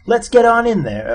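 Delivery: impatient push to get moving; eager urging. Acted. Zaphod hurrying his companions into the passage, eager.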